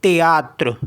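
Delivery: French त्यात्र, no English th; French pronunciation. Shown as a demonstration. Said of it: "तो ये हो गया".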